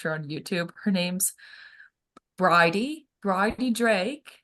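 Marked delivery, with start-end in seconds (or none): 2.4-4.3 slow, British-sounding try at an Australian accent; attempted Australian, comes out British. Shown as a demonstration. Naming an Australian YouTuber, accent slipping into British. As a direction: stretch the name in a British-tinged accent. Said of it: "that came out more British".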